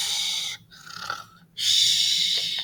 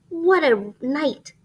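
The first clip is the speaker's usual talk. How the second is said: twittering wren; 6 semitones higher, 4 dB louder, slower than usual. Acted. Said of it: "twitters wren".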